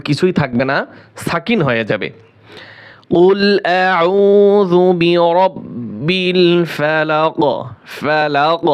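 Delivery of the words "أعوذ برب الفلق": أعوذ برب الفلق, slow Quranic recitation with a bouncing qaf at the end of الفلق; qalqalah on the end. Shown as a demonstration. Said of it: "কলকলা হবে লাস্টে". (ধীরে তেলাওয়াত, শেষে কলকলা)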